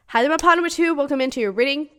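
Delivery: talking through hiccups; interrupted by hiccups. Real, not acted. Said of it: "I'm hiccuping so much".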